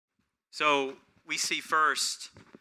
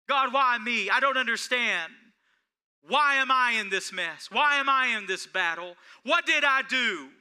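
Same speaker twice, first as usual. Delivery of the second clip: higher, louder, pleading whine; mock a self-pitying complaint to God; whiny complaining prayer; 8 semitones higher, 5 dB louder than usual. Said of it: "that's not the way you and I are to pray".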